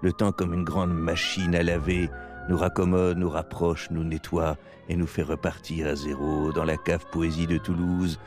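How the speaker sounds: slow, low poetic reading; poetic narration. Acted. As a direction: read it like a radio poem. Poetic closing over music.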